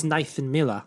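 put-on British name, Miller ending in "ah"; British accent. Co-host correcting a UK supporter's name, mock British accent. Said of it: "We love the accent".

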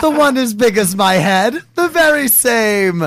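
a light British customer voice; mock British accent. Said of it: "was my accent decent?".

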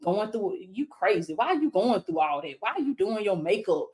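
the enemy murmuring doubts in her ear, only lightly voiced; mocking enemy whisper. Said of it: "the enemy trying to whisper in my ear".

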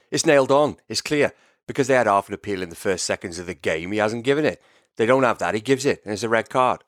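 put-on quoting in a Welsh accent; lilting Welsh manager voice. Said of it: "That's a great Welsh accent".

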